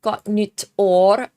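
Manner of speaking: Gott nytt år said slowly with a rising år; careful Swedish Gott nytt år; Swedish greeting. Shown as a demonstration. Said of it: "how to say Happy New Year's".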